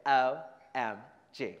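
slow drawn-out O M G; group call-out. Shown as a demonstration. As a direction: say it like the whole crowd gasping. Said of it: "raise your right hands and say".

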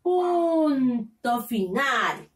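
punto final drawn out slowly and firmly; stress on punto final. Shown as a demonstration. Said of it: "y cuando se termina la oración".

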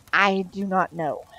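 slow, evenly spaced words; entranced reply. Acted. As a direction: answer slowly, as if hypnotised. Entranced woman answers slowly.

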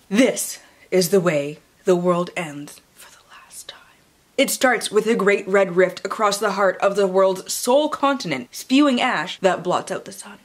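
hushed, ominous book-blurb read; dramatic reading. Acted. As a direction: read it like a movie trailer.

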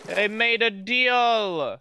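excited. Real, not acted. Announcing big news.

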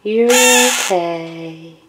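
slow, hushing reassurance; slow calming murmur to a pet; slow soothing. Real, not acted. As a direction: settle the bird down gently. Calming the bird slowly.

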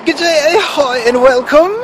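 high, drawn-out hammed-up British greeting; mock British accent. Host greeting viewers in his best British accent, hammed-up. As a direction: put on your best over-the-top British accent. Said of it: "Let me put this in my best British accent".

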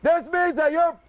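shouted rule reading; military officer. Real, not acted. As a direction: proclaim the rules like a drill sergeant. Drill instructor reading rules aloud.

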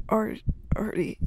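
slow, hushed stammer; calming down. Acted. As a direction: soften after hurting him. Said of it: "briefly calming down".

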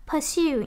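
"pursue" slowly, weight on SUE; stress on second syllable. Shown as a demonstration. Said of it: "nhấn âm hai".

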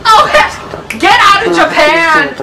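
high, loud laughing shock; shrieking laughter. Real, not acted. Recognizing the same ghost, high laughing shrieks. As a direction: laugh and shout in disbelief.

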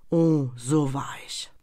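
langsam, tonlos geflüstert; reuiges Flüstern. A narrator's reading. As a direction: hauche es reuevoll aus. (reuiges Geisterflüstern)

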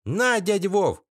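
put-on high, eager little boy; child voice. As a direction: voice a small eager kid. A kid's eager voice.

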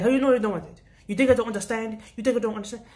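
mock offended customer. Angry customer quoted.

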